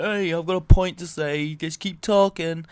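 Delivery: hammed-up opinionated ranting; aggro shouting. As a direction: shout to hold the floor. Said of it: "'cause I'm getting aggro".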